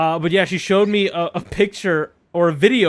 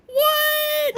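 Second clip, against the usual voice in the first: high shocked yelp. Real, not acted. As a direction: blurt it out in disbelief. Shocked at friend's remark.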